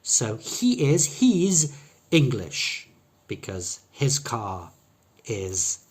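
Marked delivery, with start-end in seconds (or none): 0.4-2.9 slow, high and loud, long ee in "he's". Shown as a demonstration. Teacher showing the contraction in a sentence, long E sound. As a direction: stretch "he" and "he's", keep "English" short. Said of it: "has a long".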